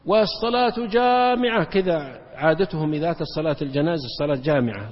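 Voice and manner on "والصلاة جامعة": slow, louder, higher call; summoning the crowd to prayer, drawn out; mock call to prayer. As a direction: call out والصلاة جامعة like a crier. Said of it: "يصيح صايح".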